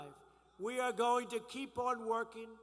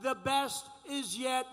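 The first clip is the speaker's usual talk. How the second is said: rally speech. Acted.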